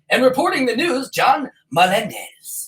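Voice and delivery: a light anchorman sign-off read; mock newscaster. Host teasing John about his newscaster name.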